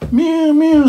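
high mew mew, like a cat at the door; high plaintive cat mew. A narrator's reading. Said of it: "scuffed Tip, Tip Simpkin".

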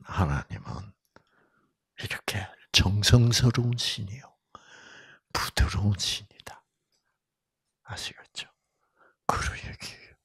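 soft, hushed whisper. Real, not acted. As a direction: lean in and whisper it. Preacher drops to a whisper.

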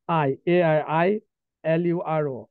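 each letter spelt out slowly and firmly; spelling out slowly. Shown as a demonstration. Teacher spelling ailuro slowly for the class, letter by letter. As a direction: spell it letter by letter for students to remember. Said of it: "এই বানানটা মনে রাখবেন".

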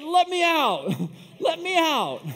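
high, loud imitation of a frantic passenger; mock panicked yell. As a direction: yell it as the passenger desperate to escape. Acts passenger begging to escape.

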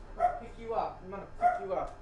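high, squeaky cooing at the dog. Real, not acted. Picking up the dog, cooing in a high baby voice. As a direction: coo it to a small pet.

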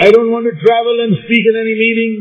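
earnest prayer. Acted. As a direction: plead upward like a son asking his father.

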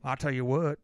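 low, drawling redneck threat. Retold or imitated. Bigger redneck threatening a guy at a club, low tone. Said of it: "you might have a deeper tone".

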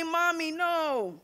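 prim correction. Retold or imitated. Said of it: "I say".

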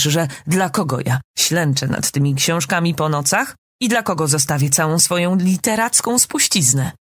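usual speaking voice

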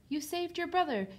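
high-pitched, impressed exclamation; delighted father. A narrator's reading. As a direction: praise the child with amazement. Father praises returning daughter.

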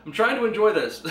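sudden loud, high outburst at a laughing friend; angry shout. Retold or imitated. Teen in a theater yelling at his laughing date, angry shout. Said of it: "I was like".

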